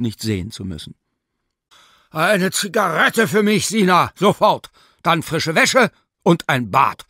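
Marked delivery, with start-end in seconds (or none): 2.1-7.1 much louder and higher, commanding; loud demands. Acted. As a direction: order her about at full volume. Professor orders the maid.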